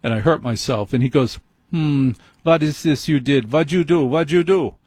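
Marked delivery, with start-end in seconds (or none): 1.7-4.8 higher-pitched mock German doctor; fake German accent. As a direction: ham up a comic German accent while questioning. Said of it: "he would sound German".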